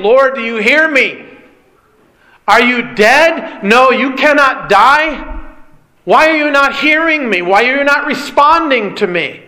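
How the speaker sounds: Luther's desperate plea, voiced with moderate lift; crying out to God. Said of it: "to cry out to the Lord".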